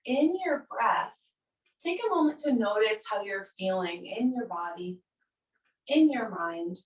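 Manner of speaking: calm yoga-teacher cueing with pauses; guided meditation. Acted. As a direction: invite them to notice, leaving space after each phrase. Guides noticing body and breath.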